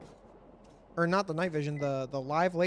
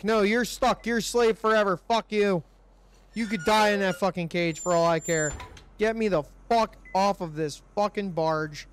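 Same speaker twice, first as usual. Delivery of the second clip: loud, higher furious ranting; angry yelling; 3 semitones higher, 5 dB louder than usual. Real, not acted. Player raging at prisoner in cage, real angry yelling. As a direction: vent real rage at the freed prisoner. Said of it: "the anger and frustration is real".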